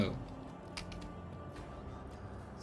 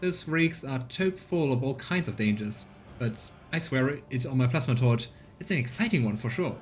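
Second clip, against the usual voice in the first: higher, lively woman's voice; colonist woman; 3 semitones higher than usual. Acted. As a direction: proudly explain the scavenger's life. Voicing Rita explaining job.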